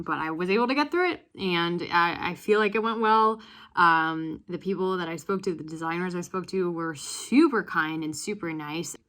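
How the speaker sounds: breathless and buzzing after the interview; excited. Real, not acted. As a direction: rush it out, loud and eager.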